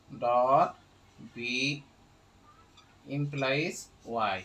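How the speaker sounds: dictating slowly, word by word, with long pauses; slow dictation. Shown as a demonstration. Teacher dictating slowly to students who asked him to slow down. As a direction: spell the formula out slowly for the class. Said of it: "আমি ধীরে বলছি".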